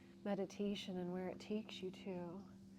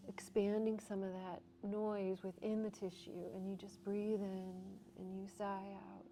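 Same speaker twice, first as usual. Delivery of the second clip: guided breathwork. Acted. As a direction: guide the class gently into the stretch. Guides settling and sighing.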